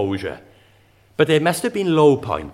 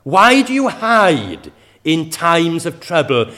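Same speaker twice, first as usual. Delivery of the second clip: slow, louder pleading cry to God; a psalmist's slow, raised cry of complaint; 3 semitones higher, 5 dB louder, slower than usual. Retold or imitated. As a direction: lift the voice in a slow lament. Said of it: "The psalmist once cried".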